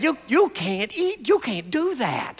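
a light, slow imitation of a comic movie line; a hint of a comedian scolding; Billy Crystal. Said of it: "Billy Crystal said".

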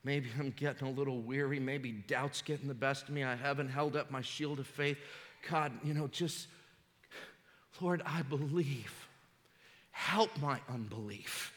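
a hint of a tired, doubting prayer; weary prayer. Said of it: "Anybody ever prayed like that".

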